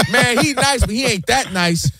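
mock fan calling him a sore loser; mock fan scoffing. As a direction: sneer through a laugh. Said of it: "What's the first thing they say?".

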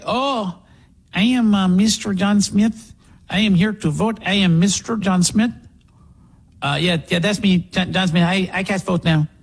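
lightly put-on halting voter voice; fake voter impersonating a dead man. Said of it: "how do we send somebody in and say".

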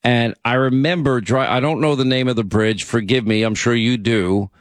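ordinary delivery

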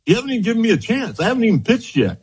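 retold fast protest; fast retort. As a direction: fire it back quickly. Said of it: "I'm like".

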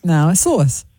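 sauce with an r-like glide, sɔɹs; her sauce. Shown as a demonstration. Co-host insists on her own sauce. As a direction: lean into the r in sauce. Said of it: "the way that I say sauce".

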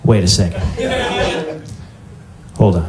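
a hint of a proud clueless player; clueless Scrabble player. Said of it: "person who doesn't understand the rules of Scrabble".

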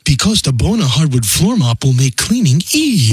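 canned pitch, no reaction to listener; robot voice. Acted. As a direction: deliver like a scripted machine. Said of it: "talking like a robot".

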